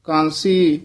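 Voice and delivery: ਕਾਂਸੀ held and set apart with a falling end; yamak on kansi. Shown as a demonstration. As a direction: land on ਕਾਂਸੀ and hold. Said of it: "ਕਾਂਸੀ ਪਦ ਤੇ ਯਮਕ ਲਾ ਕੇ ਬੋਲਣਾ ਹੈ". (ਕਾਂਸੀ ਤੇ ਯਮਕ)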